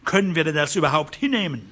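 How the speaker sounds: rally them to resist; angry call to fight. Acted.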